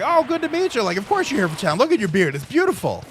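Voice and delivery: very high and loud; delighted compliment. Retold or imitated. Jacksepticeye praising the fan's beard, very high and loud. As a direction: gush about the beard. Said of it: "and Jack was like".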